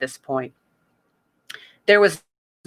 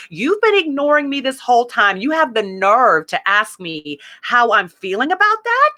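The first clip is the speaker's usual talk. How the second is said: raised pitch, indignant retort to God; livid at God; 5 semitones higher than usual. Retold or imitated. Talking back to God in the story, pitched-up indignant anger. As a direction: throw the question back in outrage. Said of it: "I was livid at this point".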